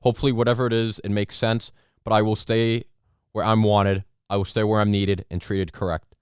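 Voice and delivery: anchor reading a quote aloud; formal newsroom read of the quote; news anchor. Pretend. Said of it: "anchor impression".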